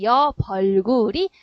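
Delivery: 여, 벌굴이 loud and syllable-clear, ㅂ starting the second part; standard pronunciation. Shown as a demonstration. Teacher shows the standard form of 옆 얼굴, standard pronunciation. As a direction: sound out 여, 벌굴이 with the ㅍ turned to ㅂ and carried over. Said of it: "표준 발음이 되는 겁니다".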